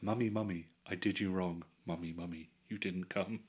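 soft, falling lines of verse; poem recital. Acted. Reciting a remembered poem to friends on request, mock-solemn recital. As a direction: recite it quietly, letting each line drop. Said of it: "Give us a reading".

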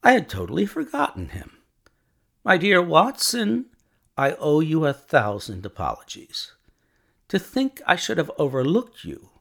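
high, loud, apologetic outcry; exclaiming. A narrator's reading. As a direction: exclaim as if just remembering. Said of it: "cried Holmes".

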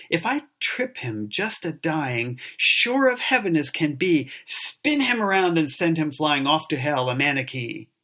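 lightly acted sneering monk in a dramatic poem reading; theatrical monologue of petty monastic hatred; jealous, hypocritical monk. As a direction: recite as a monk seething at his rival, with mocking swings in pitch.

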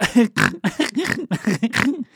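loud nasal snort laugh. Shown as a demonstration. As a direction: laugh through your nose with snorts. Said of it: "This kind of laugh is obnoxious".

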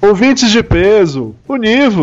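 slow booming show opener; announcer voice. Acted. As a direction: call it out like a radio host. Podcast opening call.

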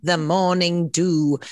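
put-on slow, drawn-out British accent. Host echoing a guest's phrase in a British accent. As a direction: savor the words in a British accent. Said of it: "I feel compelled to say that in a British accent".

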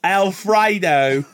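slow, laughing mock Aussie; Australian accent. Cohost adding a dish, laughing Australian accent. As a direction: drag out the dish name like an Aussie. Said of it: "saying Italian dishes in an Australian accent".

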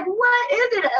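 a high, thrilled squeak of disbelief; excited squeal. Retold or imitated. Fan recalling Power Ranger fight scenes, excited high squeal. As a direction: gush like a starstruck wrestling fan.

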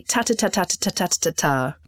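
"ta ta ta" in a rapid, even string; tongue-twisting warm-up on repeated "ta"; articulation drill. Shown as a demonstration. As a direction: rattle off "ta ta ta" with a crisp tongue-tip t. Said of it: "I want you to say".

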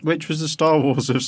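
chewing while talking; words round a bite of food; mouth full. Real, not acted. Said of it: "I've got a mouthful of banana".

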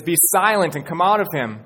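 firm, loud command; rebuke. Acted. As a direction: cast the demon out with authority. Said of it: "Jesus rebukes this man".

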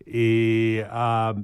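ordinary talk, nothing marked

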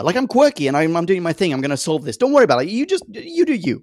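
lightly voiced quirky Doctor; breezy, carefree Doctor voice; quirky Doctor impression. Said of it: "the Troughton-esque".

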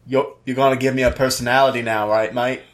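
low, lightly voiced tough British guy; a hint of Statham's London growl; mild Statham impersonation, low and casual; Jason Statham impression. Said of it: "That's a pretty good Jason Statham impression".

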